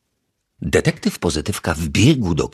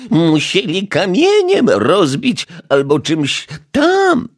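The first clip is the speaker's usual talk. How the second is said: grumbling; 13 semitones higher, 6 dB louder, slower than usual. A narrator's reading. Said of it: "mamrotała pani Majewska".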